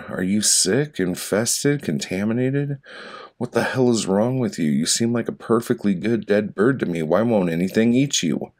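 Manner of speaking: baffled, pestering questions; talking to the dead bird, exasperated; exasperated questioning. Acted. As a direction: interrogate the corpse, getting worked up.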